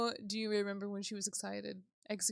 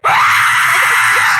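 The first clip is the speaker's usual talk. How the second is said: very loud startled scream; real jump-scare shriek; terrified scream; 11 semitones lower, 24 dB louder than usual. Real, not acted. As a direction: scream in sudden terror. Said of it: "that was terrifying".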